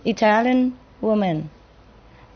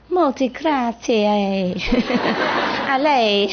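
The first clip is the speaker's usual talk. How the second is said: Italian sweetly. Retold or imitated. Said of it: "They don't say thank you very much".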